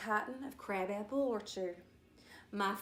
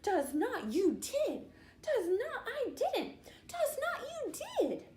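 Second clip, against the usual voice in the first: rising higher, giggling back-and-forth; giggling taunt; 13 semitones higher than usual. A narrator's reading. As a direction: taunt him through giggles. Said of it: "Kelsey Ann giggled".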